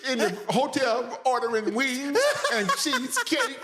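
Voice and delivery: husband on tour hears his wife's complaints, mock nagging. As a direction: ham up a fed-up wife on the phone. S1 voices a nagging wife.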